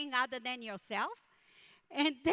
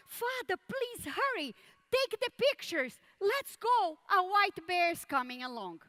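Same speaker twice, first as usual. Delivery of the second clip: high, pressing plea to hurry; a son urging his father to move, now; urgent son; 5 semitones higher than usual. Retold or imitated. A son urging his father to hurry before the bear arrives, high and pressing.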